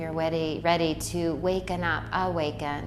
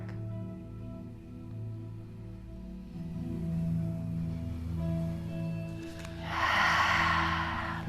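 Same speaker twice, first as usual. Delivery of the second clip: slow, voiceless sigh swelling at the end; long releasing sigh; 5 dB quieter than usual. Shown as a demonstration. Guide showing listeners how to let it out, long sigh. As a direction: let out a long, audible breath.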